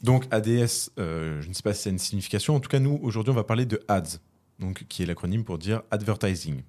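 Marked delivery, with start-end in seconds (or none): 5.9-6.6 advertising said in an English accent; English-accented word. Shown as a demonstration. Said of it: "ce petit accent anglais".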